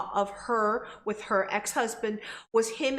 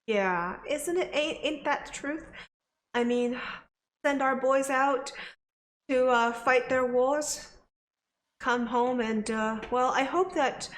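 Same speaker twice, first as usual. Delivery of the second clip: put-on southern accent; 2 semitones higher than usual. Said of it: "I'm doing a slightly southern accent".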